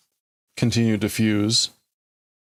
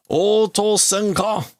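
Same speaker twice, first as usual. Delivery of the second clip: high, drawn-out mock shout; insistent demand; 8 semitones higher, slower than usual. Admiral demanding a reply from silent crew, insistent. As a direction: demand an answer over the radio.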